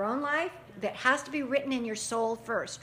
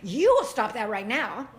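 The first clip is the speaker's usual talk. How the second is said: exasperated; 6 dB louder than usual. Retold or imitated. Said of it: "got exasperated at that child and said".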